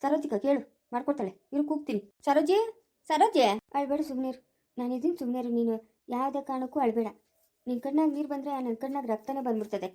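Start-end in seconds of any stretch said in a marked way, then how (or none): 2.3-3.4 a summons to someone out of sight; calling out. Acted. Man calls a woman to make juice, calling out. Calls Saroji to come over. 3.8-9.9 soft-spoken, protective reassurance; soothing. Acted. Neighbour tells crying woman he is there, soothing.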